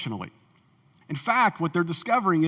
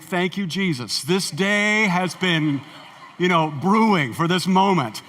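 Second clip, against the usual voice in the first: gleeful thought; slower than usual. Retold or imitated. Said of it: "And I think".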